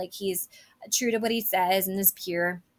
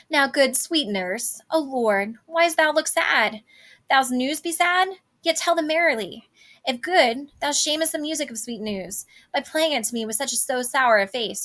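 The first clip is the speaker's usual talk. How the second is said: eager pleading; 3 semitones higher than usual. Acted. Juliet pleading with sad-faced nurse.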